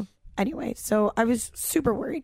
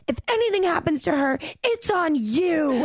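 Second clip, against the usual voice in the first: mock-stern threat, pitched up; retold angry warning; 4 semitones higher than usual. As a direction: lay down the blame, stretching the last words. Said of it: "I was so mad".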